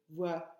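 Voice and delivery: Voiture split, the ture held long; "Voiture" in two syllables with a long U; stress on U. Shown as a demonstration. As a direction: pause after voi, then stretch ture in "Voiture". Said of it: "On entend le U dans voiture".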